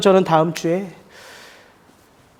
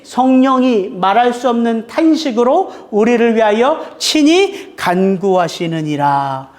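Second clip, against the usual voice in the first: slow, measured scripture reading; slow solemn Bible reading to the congregation; slower than usual. Acted. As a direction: read the verse slowly and solemnly. Reads Romans 8:26 aloud.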